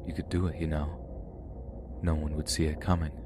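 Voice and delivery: hushed, breathy tempting whisper; sinister whisper. Retold or imitated. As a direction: whisper it like a voice in her head. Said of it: "I heard more whispers".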